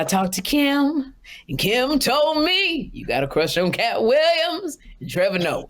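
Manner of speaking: a hint of her teasing lilt; light mock diva voice; high sing-song imitation. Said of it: "She said".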